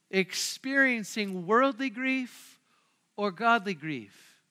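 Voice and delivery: worldly and godly drawn out slowly, each stressed; slow, weighty contrast of worldly and godly. Real, not acted. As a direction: lean on worldly, then on godly. Preacher contrasts two kinds of grief.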